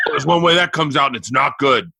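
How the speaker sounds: grave, sinking pronouncement; dad's voice. Retold or imitated. Dad after son swallowed glass, imitated grave voice. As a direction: imitate a dad's ominous verdict, dropping low at the end. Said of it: "And he goes".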